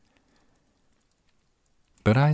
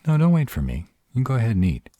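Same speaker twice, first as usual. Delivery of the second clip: insistent urging; 8 semitones higher, 5 dB louder, much faster than usual. Acted. Urging partner to eat first.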